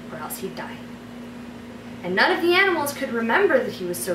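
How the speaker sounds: story narration. Acted. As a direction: read it like a bedtime story. Reads her fairy tale aloud.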